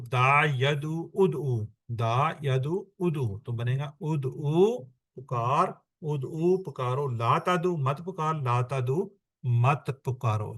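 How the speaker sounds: slow, drawn-out drill chant of دا ید او اد او; slow recitation. Shown as a demonstration. Teacher modelling the conjugation for students, slow chant. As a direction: recite each form slowly and evenly for the class to copy. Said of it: "teacher models conjugation recitation".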